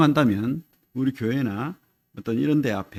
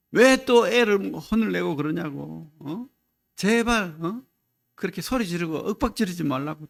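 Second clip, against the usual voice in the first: higher-pitched mock protest; lightly voiced scolding mother; 4 semitones higher than usual. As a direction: lightly play a mother pleading with her husband to stop. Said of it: "옆에 있던 엄마가". (말리는 엄마를 살짝 흉내)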